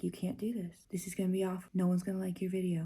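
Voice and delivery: whispered voice of her anxiety. Retold or imitated. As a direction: hiss the doubts like a nagging inner voice. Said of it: "I just been hearing in my head".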